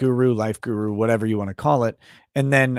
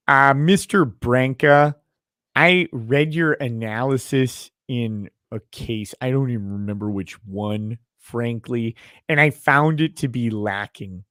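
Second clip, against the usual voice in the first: put-on Wisconsin accent. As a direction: lay on a heavy Upper Midwest accent. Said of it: "in your thickest Wisconsin accent".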